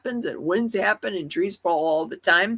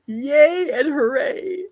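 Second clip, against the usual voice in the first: high-pitched, celebratory delivery; excited cheer; 8 semitones higher, 4 dB louder, slower than usual. Real, not acted. Telling the chat about getting monetized, excited cheer. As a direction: celebrate it, stretching out the final hooray. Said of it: "I was excited about getting monetized".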